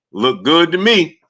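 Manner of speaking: high, slow mock reply, lightly played; imitating Errol. Retelling how Errol answered about his eye, mock imitation. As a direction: drawl out Errol's casual answer. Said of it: "the way you said Errol responded".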